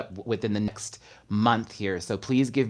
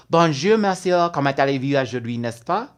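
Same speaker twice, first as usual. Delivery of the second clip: showy French greeting; 2 semitones higher, 5 dB louder than usual. Pretend. Host greets Paris viewer, showy French greeting. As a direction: roll out a theatrical French greeting.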